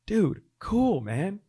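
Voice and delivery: high, loud easy-going approval; stoked friend. Retold or imitated. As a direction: sound like a buddy pumped for you. Retold friend's chill acceptance.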